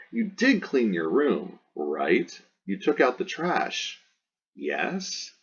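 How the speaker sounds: mock parent fishing for a yes; leading parent. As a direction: play a parent who expects agreement. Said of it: "Parents do this one all the time".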